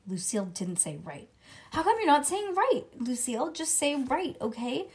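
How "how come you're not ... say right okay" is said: put-on high, loud pleading child. Junie B. begging Lucille to agree, high and loud. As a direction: beg her friend to just say right.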